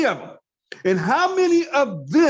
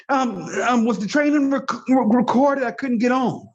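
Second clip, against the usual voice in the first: lightly put-on, hesitant asker, a bit higher; mimicked excuse-maker; 3 semitones higher than usual. Trainer imitating members who missed the call, lightly mocking. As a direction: stumble through it, mildly mocking a latecomer. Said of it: "here's what they're gonna do".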